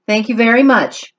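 bright, polite kitten thanks; polite kitten Max. Acted. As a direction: thank them sweetly.

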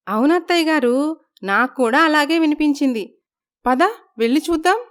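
alarmed, hurry to go and see; startled and eager. Acted. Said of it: "Aishwarya ఆశ్చర్యపోతారు". (ఆశ్చర్యంతో, తొందరగా, ఎత్తైన గొంతుతో)

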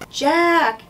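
high, loud shout of a name; crying out. Acted. Annie crying out to Jack from the boat, loud and high. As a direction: yell to get his attention. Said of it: "came a cry".

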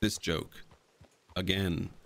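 weary, deadpan eye-roll; eye-rolling sarcasm. Retold or imitated. Bored viewer at a repeated joke, eye-rolling sarcasm. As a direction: say it fed up, rolling your eyes. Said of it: "roll your eyes and go".

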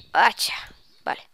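playful little voice, rising at the end; silly little voice. Real, not acted. Player naming the axe to herself, silly little voice. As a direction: say it in a tiny silly voice. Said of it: "No sé por qué pongo esa vocecita".

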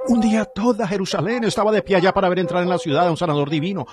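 usual speaking voice

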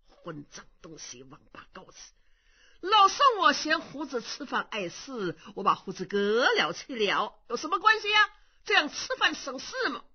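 gruff curse then a glib excuse; blustering old monk. Acted. Impostor explaining away his missing beard, glib. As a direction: brush it off like a crafty old man.

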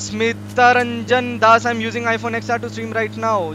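slow, drawn-out read of a viewer message; loud shout-out. Real, not acted. Streamer reading a fan's message on request, loud shout-out. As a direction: stretch the name out like a proud announcement. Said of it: "जोर से बोल दे".

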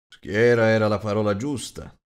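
a big man chuckling over the word; amused big host. Acted.

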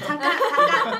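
loud high call to stop. Real, not acted. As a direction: cut in loudly to stop them. Interrupting loudly.

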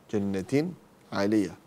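slow جنة عالية with a distinct n before ع; unblended, drawn-out جنة عالية; clear tanween. Shown as a demonstration. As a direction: finish جنة on a clean n, then عالية. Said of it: "إظهار".

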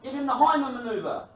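loud high call for help; shouted out. Retold or imitated. Friend shouting advice as John chokes, loud and high. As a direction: call it out across the table. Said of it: "My other friend shouted out".

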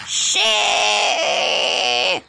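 sudden cry of dismay; shouted curse. Real, not acted. Child reacting to the toy game, shouted.

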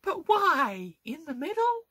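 very high-pitched, incredulous questioning; baffled exasperation. Real, not acted. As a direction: plead for an explanation in a high voice. Baffled by the repair bay placement.

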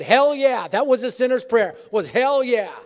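loud, eager yell; excited shout. Retold or imitated. Uncle Jack accepts Jesus, a loud eager shout. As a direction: blurt it out with full gusto. Jack's enthusiastic conversion.

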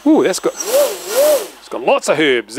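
high, slow delighted ooh; thrilled by the revs; excited. Real, not acted. Motor revs up.

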